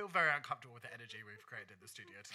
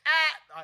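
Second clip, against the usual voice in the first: squeaky exclamation; 14 semitones higher, 19 dB louder than usual. Retold or imitated. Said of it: "she opens her mouth and she's like".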